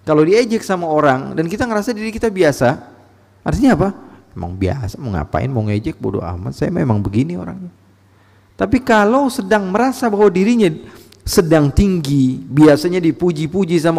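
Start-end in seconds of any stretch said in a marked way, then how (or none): 4.4-7.7 low, softer, unbothered delivery; nonchalant shrug-off. Acted. Ordinary person unbothered by teasing, nonchalant. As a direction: brush it off with a low, careless voice. Acts out someone unbothered by mockery.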